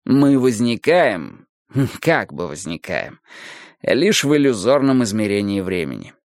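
lightly voiced philosophical teacher, drawn-out phrases; Adonis expounding. Adonis explains illusion to his listeners, deliberate lecturing. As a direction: give it a slightly lifted, deliberate lecturing voice.

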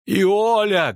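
high-pitched, drawn-out call of the name; urgent cry. A narrator's reading. Priestess to the convulsing girl, urgent cry. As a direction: cry out to reach her. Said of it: "кричала Нанеки".

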